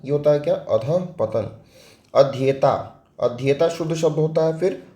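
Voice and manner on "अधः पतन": अधः पतन said slowly and softly, syllable by syllable; correct spelling said slowly. Shown as a demonstration. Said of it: "ये अधोपतन नहीं होता है". (अधः पतन धीरे और साफ़ बोलें)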